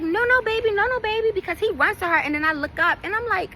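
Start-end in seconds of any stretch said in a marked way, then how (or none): 0.0-1.3 put-on higher, coaxing voice to a toddler; lightly voiced mom stopping her son; mock mom warning. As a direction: gently call the child off, pitched up.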